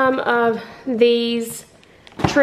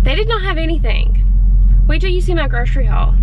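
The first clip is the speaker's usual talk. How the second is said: breathless and a bit loud; out of breath; 3 semitones higher, 5 dB louder than usual. Real, not acted. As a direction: talk while still catching your breath. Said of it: "I'm out of breath".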